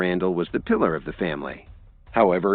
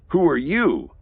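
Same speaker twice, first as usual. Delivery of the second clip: higher, louder impatient shout; louder, higher impatient yell; impatient roar; 9 semitones higher, 3 dB louder than usual. A narrator's reading. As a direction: roar at the stranger. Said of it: "Drake roared impatiently".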